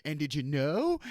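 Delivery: mock-insinuating rise on "know"; leading inflection. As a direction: lift "know" like a leading question. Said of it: "in a certain inflection".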